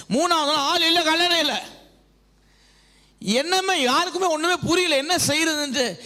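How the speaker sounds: high-pitched, agitated sermon delivery; preaching bewilderment. Acted. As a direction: pile up the baffled questions for the congregation. Preaches the confusion at the tomb. (குழப்பத்தோடு பிரசங்கிக்கும் குரல்)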